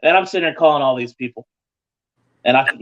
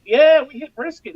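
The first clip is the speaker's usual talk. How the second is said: excited; 13 semitones higher than usual. Retold or imitated. Team sure they won brisket.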